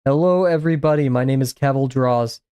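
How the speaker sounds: lightly mimicked synthetic voice, slightly lifted at the start. Shown as a demonstration. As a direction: imitate an AI clone with odd inflection. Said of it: "pretend that you're talking as your A I voice".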